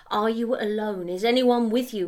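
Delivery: repeating the question as a demand. Acted. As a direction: insist on an answer this time. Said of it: "he demanded".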